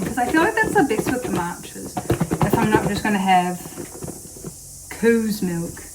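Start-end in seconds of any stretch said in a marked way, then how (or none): 4.9-5.8 cow's said as coo's in a mock Scottish accent; a passing jokey Scottish coo's milk; bad Scottish accent. Shown as a demonstration. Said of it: "I said that in a bad Scottish accent".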